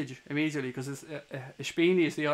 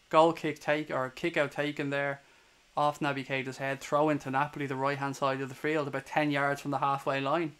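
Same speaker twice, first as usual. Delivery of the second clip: steady live match commentary; play-by-play. Acted. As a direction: call the game as it unfolds.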